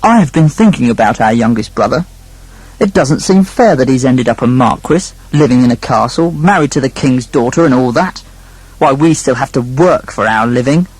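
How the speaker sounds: a hint of a resentful older brother; lightly voiced discontented sibling; grumbling eldest brother. Eldest brother complains, plotting.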